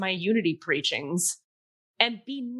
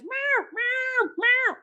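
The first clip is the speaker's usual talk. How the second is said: cat meows; much slower than usual. Retold or imitated. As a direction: yowl like a cat in a bag. Cat meowing in back seat.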